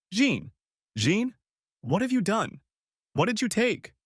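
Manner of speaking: high, urgent alarmed questions; husband frightened for drugged wife. Acted. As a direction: panic rising. Husband alarmed at her eyes.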